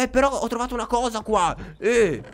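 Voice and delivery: high, excited calling out; excited discovery. Real, not acted. Annuncia agitato una scoperta. (annuncio eccitato, con voce acuta)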